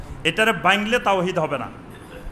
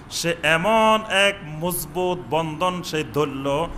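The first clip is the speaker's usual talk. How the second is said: normal talking voice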